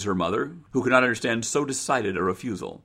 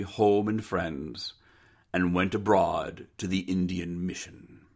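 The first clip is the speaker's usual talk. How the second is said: measured, solemn reading; story narration. Acted. Narrator closes Charlie Brown's sad tale, measured and solemn. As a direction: read the closing paragraph gravely. Reads the final paragraph.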